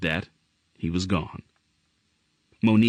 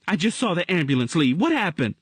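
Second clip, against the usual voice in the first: worried woman; 10 semitones higher than usual. Acted. Woman character voice.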